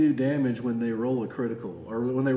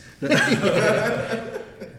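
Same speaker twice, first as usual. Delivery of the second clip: loud laugh; 10 semitones higher, 8 dB louder than usual. Real, not acted. DM laughs at death.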